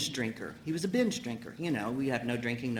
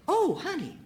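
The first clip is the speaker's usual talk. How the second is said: sweet-talking husband. Retold or imitated. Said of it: "and he says".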